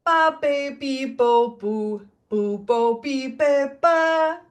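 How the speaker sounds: quick clipped Spanish syllables; short and snappy. Shown as a demonstration. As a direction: snap each syllable short. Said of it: "short and snappy".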